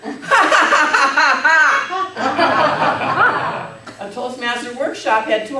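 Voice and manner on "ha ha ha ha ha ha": very slow, louder, drawn-out ha ha ha; slow demo laugh. Shown as a demonstration. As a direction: stretch each ha out like a laughter exercise. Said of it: "To demonstrate more laughter".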